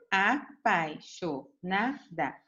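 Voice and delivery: "Apaixonada" said slowly as one whole word; "Apaixonada" read out slowly but joined up; slow clear reading. Shown as a demonstration. Teacher repeating the word for pupils: slow, as one word.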